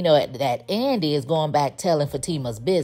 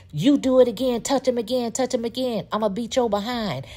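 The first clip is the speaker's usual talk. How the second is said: upset threat; 6 semitones higher than usual. Retold or imitated. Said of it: "she gets all upset".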